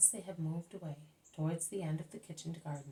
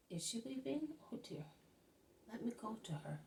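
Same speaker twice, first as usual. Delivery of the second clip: solicitous; 5 semitones higher, 5 dB quieter than usual. A narrator's reading. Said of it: "says Salome solicitously".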